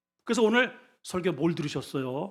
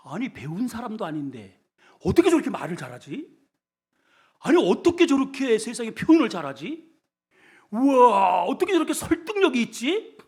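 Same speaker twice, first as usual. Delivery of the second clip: amazed crowd; 3 semitones higher than usual. Retold or imitated. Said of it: "그 설교를 들으면서 놀래요".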